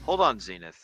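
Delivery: put-on blustering old officer, indignant; pompous sputtering colonel. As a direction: huff and sputter like a stuffy colonel. Pompous objection to health talk.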